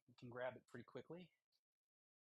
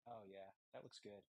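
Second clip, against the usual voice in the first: a deliberately bad Australian-ish accent, lower and softer; 5 semitones lower, 9 dB quieter than usual. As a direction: put on a clumsy fake Australian accent. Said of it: "It was just supposed to be a bad accent".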